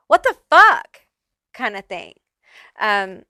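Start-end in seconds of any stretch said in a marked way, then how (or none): 0.1-1.0 exasperated outburst. Retold or imitated. Voicing an offended, cut-off friend.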